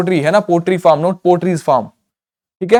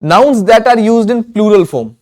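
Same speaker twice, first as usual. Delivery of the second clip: slow dictation; 4 semitones higher, 4 dB louder, much slower than usual. Shown as a demonstration. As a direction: read the heading "nouns that are used in plural form" slowly and loudly. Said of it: "next देखिए फिर".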